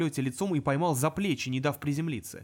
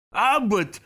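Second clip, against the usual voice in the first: much louder demon roar; 6 semitones higher, 8 dB louder than usual. Acted. Demon roaring his name at the imp. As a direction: bellow the name. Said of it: "взревел демон".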